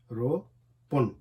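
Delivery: रोपन drawn out very slowly, ro-pon; slow demo word. Shown as a demonstration. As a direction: stretch each sound of रोपन for the class. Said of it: "यानी कि छः अदद".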